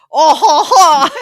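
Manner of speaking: loud high laughter; cackling with glee; laughing hard. Real, not acted. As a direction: burst out laughing. Laughing at son's reaction.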